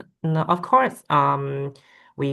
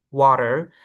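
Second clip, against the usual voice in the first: American "water" with a sounded r; American accent; 4 dB louder than usual. Shown as a demonstration. Student comparing accents for the teacher, American "water". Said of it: "in American, um, they say".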